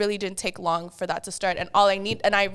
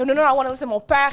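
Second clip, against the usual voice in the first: excited mom; 4 semitones higher, 6 dB louder, much faster than usual. Retold or imitated. Mom insisting fast.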